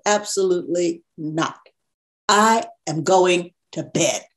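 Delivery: measured, deliberate retold refusal; firm refusal. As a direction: spell it out, leaving no room for argument. Retelling a firm refusal to Father.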